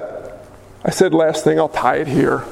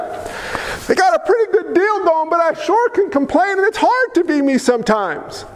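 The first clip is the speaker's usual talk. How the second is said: mock whiny complaint; 4 semitones higher than usual. Mock complaint to God, higher.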